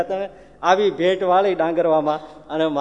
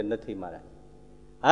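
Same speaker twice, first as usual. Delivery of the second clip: quiet; 8 semitones lower, 9 dB quieter, much slower than usual. Acted. Jatan quietly says it's gone.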